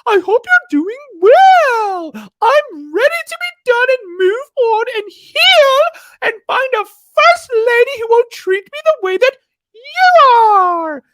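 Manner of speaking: loud, squealing falsetto mockery; over-the-top mocking squeak, very high and loud; J P's stupid little voice. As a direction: mimic him as a tiny, high-pitched whiner, words stretched out. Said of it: "in his stupid little voice, he was talking like this".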